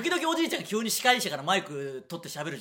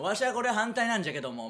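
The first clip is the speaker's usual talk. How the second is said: put-on old man voice; 6 semitones higher than usual. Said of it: "みたいな".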